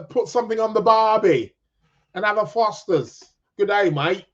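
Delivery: a faint, half-hearted Aussie twang; bad Australian accent. Host to viewer in Sydney, faint mock Australian accent. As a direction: lightly put on Australian, barely there. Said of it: "my Australian, uh, accent is terrible".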